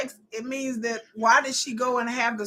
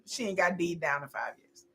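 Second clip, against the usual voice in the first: whispered aside; 7 semitones lower, 10 dB quieter than usual. Real, not acted. Gossip aside, unvoiced.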